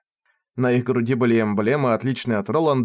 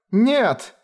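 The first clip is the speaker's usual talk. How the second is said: mock scream; 10 semitones higher than usual. Ferris plays the victim.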